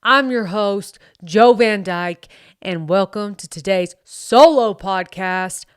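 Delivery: lightly voiced American bro accent, a touch of southern twang; put-on bro accent. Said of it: "I don't know what this accent is".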